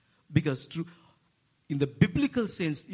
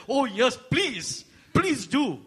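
eager mom; 8 semitones higher, 5 dB louder, slower than usual. Retold or imitated. Mom eagerly accepts prayer offer.

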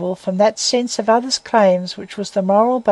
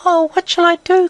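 higher anguished cry; cry of agony; 8 semitones higher than usual. A narrator's reading. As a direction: cry out in panicked despair. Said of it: "cried Maggie in an agony".

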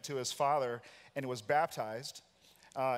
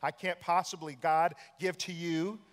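mock-indignant prayer, voice raised; complaining to God; 4 semitones higher than usual. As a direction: press God for his side of the bargain. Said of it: "And you say".

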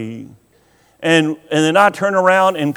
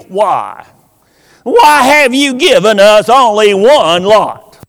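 complaining voice; 4 dB louder than usual. Retold or imitated. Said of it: "I can almost hear them saying it".

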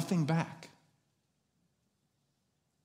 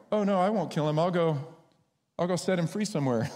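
mock reassurance; 4 semitones higher than usual. Falsely reassures kids, then laughs.

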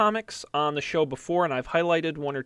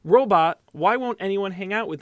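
put-on reading to children; 4 semitones higher, 5 dB louder than usual. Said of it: "this is like children's book time".

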